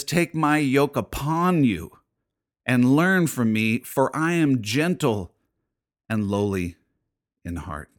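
slow, tender reading of Jesus' words; tender scripture reading. Retold or imitated. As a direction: read it gently, like an invitation. Quoting Jesus, slow and soft.

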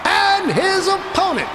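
high slow announcer shout; booming fighting game announcer. A narrator's reading. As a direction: call it out to the arena. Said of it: "the announcer continued".

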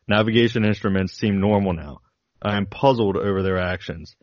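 steady, deliberate reading of a flight log; reading a diary aloud. Acted. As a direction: read it like a pilot's logbook entries.

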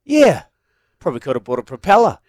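a lightly voiced teammate's quip; quoting the captain. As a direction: toss off the joke quickly. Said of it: "first thing comes out of his mouth".

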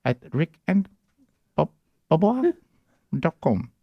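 dictating. Retold or imitated. Operator reads the email back.

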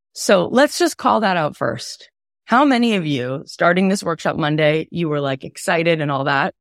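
raspy voice, cold almost gone; hoarse from a cold. Real, not acted. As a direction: talk through a croaky, cold-worn throat. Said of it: "my voice is only like this because I had a cold".

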